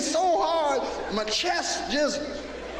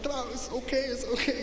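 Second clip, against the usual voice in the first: soft reassurance; 5 dB quieter than usual. Retold or imitated. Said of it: "I said".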